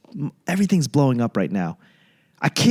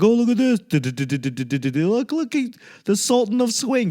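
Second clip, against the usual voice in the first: high, excited mock newsreel voice, much higher; mock old-timey announcer; 6 semitones higher than usual. Mocking old Babe Ruth footage with a high, hammed-up announcer voice. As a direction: ham up an old newsreel presenter.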